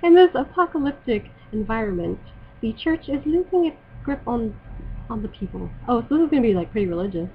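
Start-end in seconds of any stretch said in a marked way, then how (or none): 0.0-5.7 halting attempt at an Irish accent. Shown as a demonstration. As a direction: read haltingly in put-on Irish. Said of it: "I could do the Irish accent".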